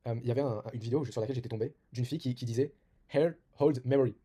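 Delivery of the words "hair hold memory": put-on quoting in English with a French accent, slow and louder; French-accented English, each word drawn out. Quoting a girl's video line, in French-accented English. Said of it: "Excusez-moi pour mon accent".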